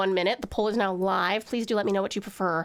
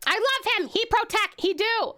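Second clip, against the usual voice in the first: gushing; 10 semitones higher than usual. Real, not acted. Gushing over drawing.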